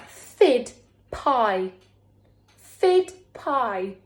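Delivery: alien talk. Acted. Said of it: "he's speaking in alien talk".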